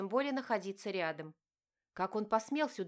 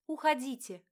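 higher, louder, bitter shout; 5 semitones higher, 6 dB louder than usual. A narrator's reading. Diana shouts at her father, bitter and loud. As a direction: throw it at him at full voice.

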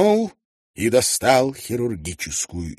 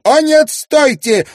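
high, loud, drawn-out cry of protest; exclaiming stop; 13 dB louder than usual. Acted. Mrs Wannop stopping Tietjens from taking the reins, exclaiming. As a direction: halt him with a sudden bright cry. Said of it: "воскликнула она".

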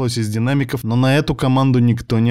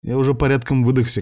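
ordinary delivery

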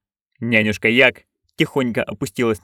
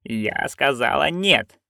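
firm refusal; 3 semitones higher, much slower than usual. Acted. Granny refuses firmly.

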